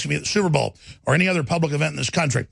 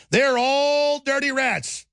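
mock sneer; 6 semitones higher, much slower than usual. Mocking a comedian's view.

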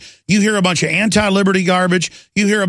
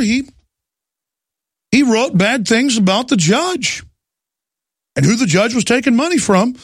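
a pitched-up, smug official brushing off the arrests; mock official voice; 4 semitones higher than usual. Host mocking officials who arrest bloggers, in a raised smug voice. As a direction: play a self-satisfied bureaucrat defending jailing bloggers.

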